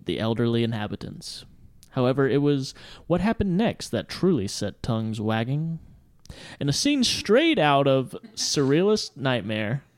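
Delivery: solemn newsreader reading the report; grave 1940s war broadcast. Acted. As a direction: read it like grave news. Reads news story aloud.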